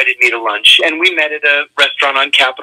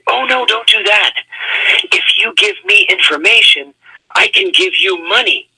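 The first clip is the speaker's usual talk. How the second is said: higher-pitched eager imitation of the diplomat; excited pitch; 7 semitones higher than usual. Diplomat pitching a bribe over lunch, excitedly imitated. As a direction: act out his excited plea, pitched up at first. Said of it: "very excitedly, he said".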